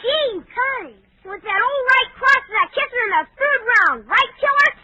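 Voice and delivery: put-on loud, high, starstruck kid gushing; thrilled boy shouting with wonder; awed excitement. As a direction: gush like a kid meeting his hero. Kid awed by meeting a boxer.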